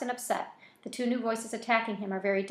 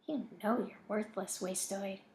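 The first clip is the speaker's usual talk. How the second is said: quiet, cold and cruel; soft; 8 dB quieter than usual. A narrator's reading. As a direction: murmur it cruelly and softly. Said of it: "Dirtbag says softly".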